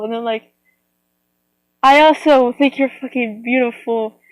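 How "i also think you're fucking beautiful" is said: mock-aggressive compliment, slightly forceful; aggressive positivity. Speaker acting out a fierce compliment, aggressively positive. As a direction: pay a compliment like a mild attack. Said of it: "just have a aggressive positivity".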